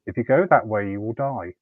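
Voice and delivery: retold voice of gentle authority; gentle but commanding. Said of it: "gentle, but so commanding".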